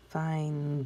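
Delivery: "Find" drawn out and closed on a clear D; final sound shown. Shown as a demonstration. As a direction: finish "Find" with a distinct D. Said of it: "hear that one more sound there".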